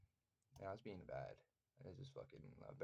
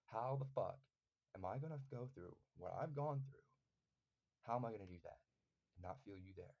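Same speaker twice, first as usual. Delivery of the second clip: angry demand, heavy on the opening words; retold anger. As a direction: plead angrily, pausing between bursts. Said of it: "I was mad at Jesus".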